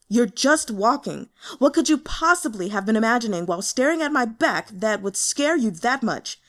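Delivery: loud, fast and exasperated; exasperated outburst. Acted. Boss ranting at the intern who shot him, loud and fast. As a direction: rant at him in disbelief. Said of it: "half out of his mind".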